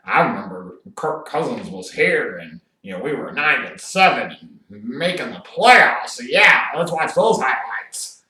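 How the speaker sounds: a hint of a wistful coach reliving old glory; mock coach voice. Host mocking Raiders coach Jon Gruden, lightly voiced coach reminiscing. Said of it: "Guy like".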